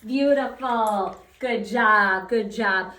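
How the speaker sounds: booming happy praise; loud praise. Real, not acted. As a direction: reward him loudly. Praising dog.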